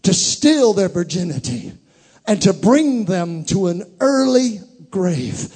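loud, rising sermon cry; preaching. Real, not acted. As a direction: preach it out to the congregation. Preacher building intensity.

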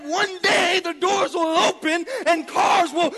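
loud, high, shouting sermon climax; full-force preaching. Acted. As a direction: preach it out, building to a roar.

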